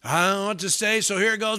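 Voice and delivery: lightly acted hesitant blurting; clueless blurter. Preacher mimics someone unsure what to say, dithering. Acting out blurting without thinking.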